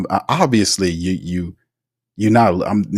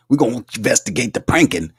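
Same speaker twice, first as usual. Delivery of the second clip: laughing mockery; faster than usual. Real, not acted. Mocking the league's priorities.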